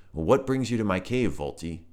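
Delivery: chill, friendly toad. Acted. Toad character voice.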